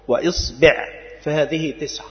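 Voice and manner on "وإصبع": إصبع with kasra on the hamza and kasra on the ba, iṣbiʿ; vowel demo. Shown as a demonstration. Teacher listing the variant for students, careful iṣbiʿ. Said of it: "كسر الهمزة".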